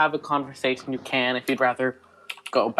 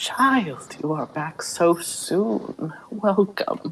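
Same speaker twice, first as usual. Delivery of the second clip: woman's voice among the sound of rustling leaves; 4 semitones higher than usual. Narrator voicing a woman heard through the creaking leaves, woman's voice from the leaves. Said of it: "and she says".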